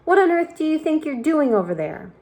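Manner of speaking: a high, loud jeering yell; yelled insult. A narrator's reading. Centipede yelling insults at the cloud men, loud high jeer. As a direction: hurl the insult across the sky. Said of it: "he yelled".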